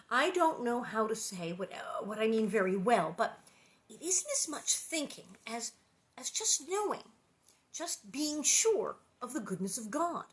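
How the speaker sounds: reading the chapter aloud, voicing the girls lightly; story narration. A narrator's reading. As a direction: tell it gently like a bedtime story. Reads the book aloud.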